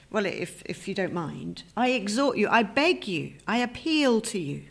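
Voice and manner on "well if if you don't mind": mild polite request. Retold or imitated. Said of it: "It's not a sort of".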